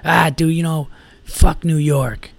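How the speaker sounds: mildly chippy, drawn-out jab at New York; lightly mocked barroom needling. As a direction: imitate a chippy drunk picking a fight. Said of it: "fucking really chippy".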